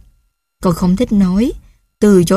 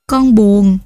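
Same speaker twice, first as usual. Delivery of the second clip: put-on sad child; 3 dB louder than usual. Child answers sadly.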